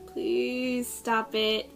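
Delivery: drawn-out, mildly exasperated plea; annoyed plea. Retold or imitated. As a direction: stretch it out slowly, as if fed up. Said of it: "'cause it's really annoying".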